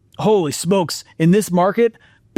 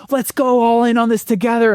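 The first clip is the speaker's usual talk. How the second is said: excited sharks; 9 semitones higher than usual. Retold or imitated.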